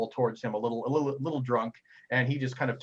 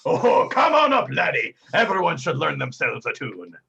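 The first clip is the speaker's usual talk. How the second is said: jolly bartender; 7 dB louder than usual. Acted. Bartender inviting the player up, hearty and loud. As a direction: boom a welcome across the bar.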